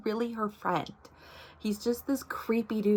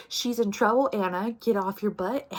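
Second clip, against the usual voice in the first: urging call; 5 dB louder than usual. Retold or imitated. Reader urging character to act.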